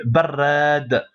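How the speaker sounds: barrad slow, final d blocked; pausal barrad. Shown as a demonstration. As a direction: drop the ending and stop on barrad. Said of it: "mais comme on bloque".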